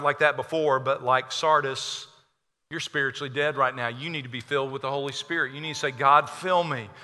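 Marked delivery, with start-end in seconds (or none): 5.9-6.9 earnest prayer. Acted. Models prayer for listeners.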